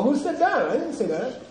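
high-pitched denial; with conviction. Shown as a demonstration. Teacher acting out a debater's denial with conviction. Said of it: "say it with some convin-, conviction".

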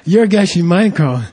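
excited recognition. Retold or imitated. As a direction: gush over meeting him. Israeli fans recognize the speaker.

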